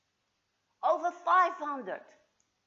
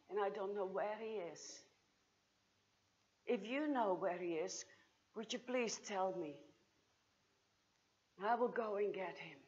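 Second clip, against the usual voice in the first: grieving plea; 5 semitones lower, 11 dB quieter than usual. Acted. Grieving woman pleads with gardener.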